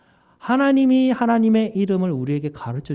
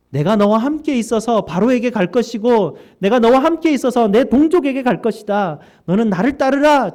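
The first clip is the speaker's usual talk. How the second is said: loud, higher, commanding promise; God's proclamation; 7 semitones higher, 7 dB louder than usual. Acted. Preacher voicing God's promise to Moses, loud proclamation. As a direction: proclaim it like God speaking from above.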